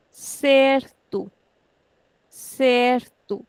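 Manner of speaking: certo with CER stretched and to short; stretched first syllable. Shown as a demonstration. Teacher models certo for students, stretching the first syllable. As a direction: draw out cer in certo, clip the end. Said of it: "We are stretching this and shortening this".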